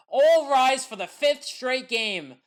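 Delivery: slow, grand all rise for the streak; slow proclamation. Real, not acted. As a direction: announce it slowly like calling the court to rise. Celebrating Judge's streak.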